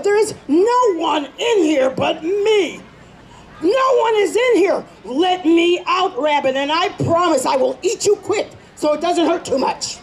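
lightly shouted threat; lion in the hut shouts at the rabbit; angry trapped lion. Acted.

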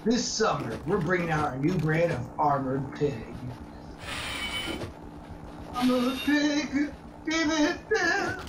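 fake ad voice. Improvised mock ad jingle.

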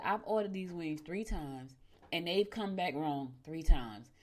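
slow, controlled retold complaint; calm but mad. Customer complaining to restaurant staff about wrong wings, calm but mad. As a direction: hold the anger down, spacing the words slowly. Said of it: "I was very calm, but I was mad".

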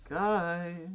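urgent call to teammates; alarm shout. Real, not acted. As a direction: shout to get their attention. Calling teammates to location.

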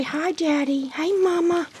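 high, cutesy pet voice; voicing a puppy. Puppy saying hi to Daddy and Mama, high cute voice. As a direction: speak for the puppy in a small high voice.

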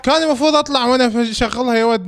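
high laughing groans. Real, not acted. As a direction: laugh through the words. Laughing after car death.

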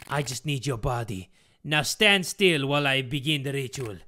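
lightly voiced accented villain; put-on villain father voice; villainous Geppetto, commanding. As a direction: order the victim to submit. Geppetto orders Mia.

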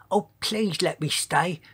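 high, small pleading voice; begging. A narrator's reading. Tiny-voiced giant asks to stay, begging. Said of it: "begged Sizo".

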